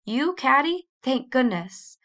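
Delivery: astonished, then thankful; a father's relief at finding his child; warm relief. A narrator's reading. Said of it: "His voice was full of warm relief".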